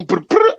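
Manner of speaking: high trilled brr-brr; quick mock yell of brr, brr; mock yelled noise. Shown as a demonstration. Demonstrating his usual yelling delivery.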